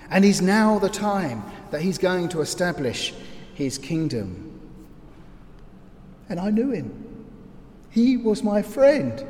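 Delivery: remember the good days as a disciple; reminiscing disciple. Acted. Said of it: "And you're there, hiding in the crowd".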